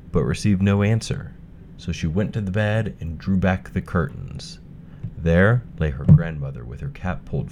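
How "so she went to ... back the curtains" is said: ordinary delivery, nothing marked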